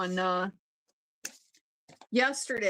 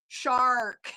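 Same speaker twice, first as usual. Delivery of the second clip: imitating the lawyer's put-on American accent, "Shark." with a hard American R, laughing through it; "Shark." said with a flat American R and a laugh; 4 dB louder than usual. Mimicking the Welsh lawyer switching to an American accent for the court, laughing. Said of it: "he used his American accent".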